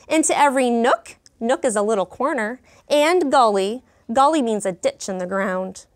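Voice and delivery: lively, expressive storybook reading; reading to children. Acted. Teacher reading a picture book to her class, lively storytelling. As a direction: bring the story alive for the class. Story read-aloud continues.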